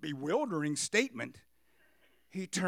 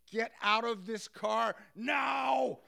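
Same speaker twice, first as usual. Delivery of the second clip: angry shout; 5 semitones higher, much slower than usual. Retold or imitated. Driver ordering the passenger out of his car, slow furious shout. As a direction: bark each word out slowly at him.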